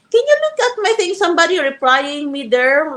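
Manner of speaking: high, quick mock request; mimicked request. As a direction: imitate her asking, high and hurried. Mimics woman's request in retold message.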